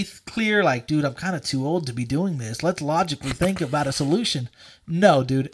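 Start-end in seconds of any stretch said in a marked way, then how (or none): 0.9-4.5 level-headed. Acted. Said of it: "straight-minded, where I'm thinking completely".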